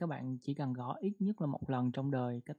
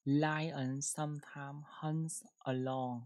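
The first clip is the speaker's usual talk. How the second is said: slow model reading; much slower than usual. Shown as a demonstration. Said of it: "Một câu nào".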